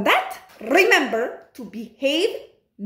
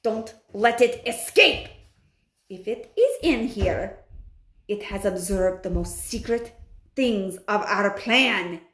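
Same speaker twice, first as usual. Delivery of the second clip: menacing witch. Acted. Grand High Witch ordering kill.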